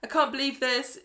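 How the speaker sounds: high, loud mock gasp of disbelief; imitating a stunned girl's outcry; shocked outburst. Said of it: "So Kelly's like".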